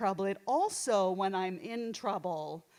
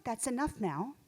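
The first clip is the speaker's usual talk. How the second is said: prim inner voice; 4 dB quieter than usual. Retold or imitated. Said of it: "little voice inside of me that I sometimes call Agnes".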